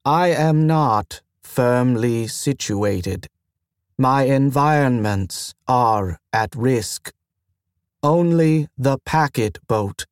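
slow and halting; slow, strained machine voice. Acted. Station AI telling the mentor its troubles, slow and strained. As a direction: lay out each problem with strain.

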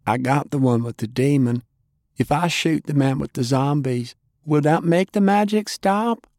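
put-on high, young and urgent question; rising, anxious and earnest; Faye's voice. A narrator's reading. Faye asking, young voice.

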